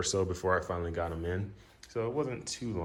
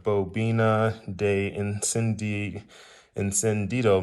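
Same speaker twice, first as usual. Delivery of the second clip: Spanish accent; 6 dB louder, slower than usual. Shown as a demonstration. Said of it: "You like my Spanish accent".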